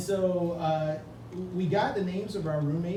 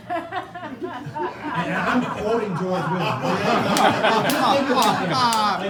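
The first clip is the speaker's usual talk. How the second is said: laughing, louder and higher; 5 semitones higher, 7 dB louder than usual. Real, not acted. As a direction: laugh at the irony. Laughing at own irony.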